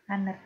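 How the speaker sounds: Honor said AH-ner with no H; silent H. Shown as a demonstration. Teacher repeating Honor for the class. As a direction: drop the H in Honor. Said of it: "H itu dia tidak terbaca".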